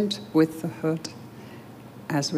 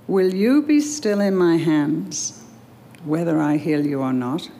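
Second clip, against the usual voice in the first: very gently. Acted. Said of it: "He asked me very gently".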